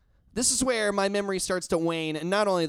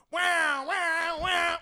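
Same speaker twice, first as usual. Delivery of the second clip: mock car alarm; 12 semitones higher, much slower than usual.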